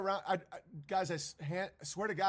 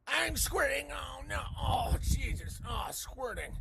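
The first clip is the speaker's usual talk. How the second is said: mock panic; 7 semitones higher, slower than usual. Mocking panicked believer.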